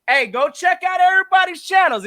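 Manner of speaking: ordinary delivery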